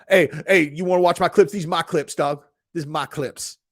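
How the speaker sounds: lightly imitated pushy streamer; Sneeko. Streamer mimicking another plugging clips, pushy. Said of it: "that was my Sneeko impression".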